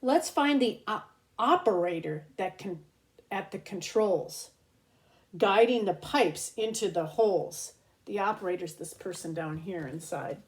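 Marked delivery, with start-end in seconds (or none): 0.0-7.7 lilting read-aloud storybook voice; reading to children. Acted. Host reads a rhyming book to kids, storybook lilt. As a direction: read each rhyme slowly to little ones.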